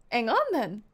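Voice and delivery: British "Ang on then", falling; dropped H. Shown as a demonstration. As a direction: say "Hang" without its H, stressing "on". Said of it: "British people just skip the first letter".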